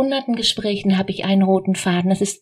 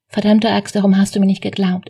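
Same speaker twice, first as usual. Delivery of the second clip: louder, a mock childish outburst of frustration; inner child shouting; 4 dB louder, faster than usual. The inner child yells at the grown-up self, a mock shout. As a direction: shout it out like a hurt kid who was never believed. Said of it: "Das kleine Kind in dir schreit".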